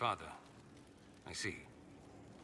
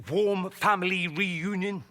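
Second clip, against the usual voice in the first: slow, dripping sarcasm; sarcastic jab; 5 semitones higher, 3 dB louder, slower than usual. Acted. Dorian needles his estranged father, slow and sarcastic. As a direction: draw out the words with bitter irony.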